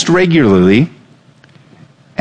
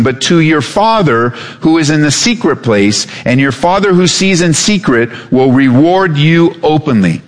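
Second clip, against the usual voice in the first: raised, slowed scripture reading; 3 semitones higher than usual. Acted. Pastor reading Matthew to the church, raised and measured. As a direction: read the verses out to the congregation. Preacher reads Matthew six aloud.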